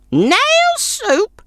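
very high scornful crone voice; snorting old woman. Acted. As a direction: scoff like a sour old woman. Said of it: "snorted the old woman".

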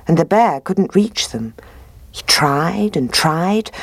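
ordinary delivery, nothing marked

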